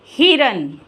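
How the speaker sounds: हिरन blended back together after spelling; blended after sounding out. Shown as a demonstration. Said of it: "ही, ... र न".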